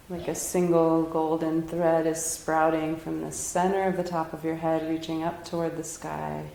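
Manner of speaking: unhurried, gentle meditation guiding; guided meditation. Real, not acted. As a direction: ease them into stillness, leaving long pauses. Leads a meditation.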